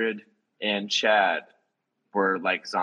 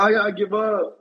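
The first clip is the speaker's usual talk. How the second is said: high, loud mock-panicked cry; hammed-up plea, pitched way up; panicked surrender; 11 semitones higher, 6 dB louder than usual. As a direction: imitate a frightened friend giving up in a panic. Terrified Jesse surrendering, retold.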